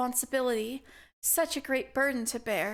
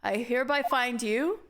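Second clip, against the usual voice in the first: stern judge; 5 semitones lower than usual. Acted. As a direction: deliver the verdict like a grave old judge. Judge reads verdict.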